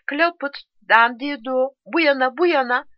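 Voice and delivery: high, urgent calling; shouting. A narrator's reading. Soldier calling comrades over to his side, shouting. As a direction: call them over, pitched well up. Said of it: "Klasörü bağırdı".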